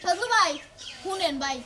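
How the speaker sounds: low, hushed appeal; soft pleading. Acted. Wife begging the creditor for a few months, soft pleading. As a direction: plead softly, keeping the voice down.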